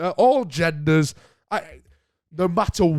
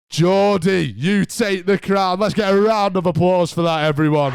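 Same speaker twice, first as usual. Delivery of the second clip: crown the winner like a game show host; cheering on the crowd as the host; winner announcement; 5 semitones higher, 4 dB louder than usual. Acted.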